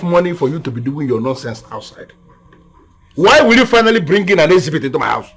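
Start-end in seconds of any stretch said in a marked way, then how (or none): 3.2-5.3 angry rebuke. Acted. Father rebuking son.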